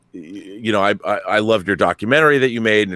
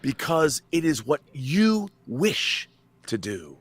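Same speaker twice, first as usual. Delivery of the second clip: imitating Khan; 6 semitones higher, slower than usual. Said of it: "he's dominating this woman".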